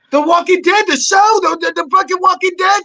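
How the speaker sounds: high, loud, incredulous insistence; exasperated excitement. Retold or imitated. Agent insisting on the show's name, loud and incredulous. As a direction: hammer the title at him. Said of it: "She goes".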